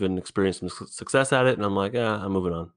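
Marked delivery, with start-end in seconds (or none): 1.9-2.7 lightly whispered retold thought; whispered quote. Retelling how he quit past projects, a light whisper. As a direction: toss off his old words in a whisper.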